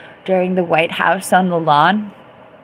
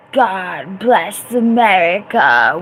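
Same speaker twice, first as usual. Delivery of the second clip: mock presidential; 4 dB louder, slower than usual. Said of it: "That was my paraphrase".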